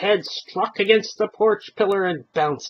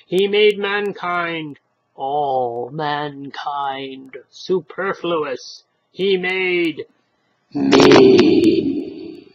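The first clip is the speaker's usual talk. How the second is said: building revelation; 2 semitones lower, 5 dB louder, much slower than usual. Acted. Stranger's dramatic revelation.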